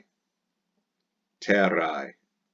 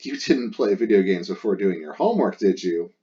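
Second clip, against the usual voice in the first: louder, pointed parent question; mock parental tag question; leading question; 5 dB louder than usual. Shown as a demonstration. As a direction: steer the kid into saying no. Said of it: "I want you to say".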